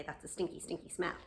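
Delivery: soft disgusted remark. Pretend. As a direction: murmur it to yourself in mild disgust. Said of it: "I think I would say".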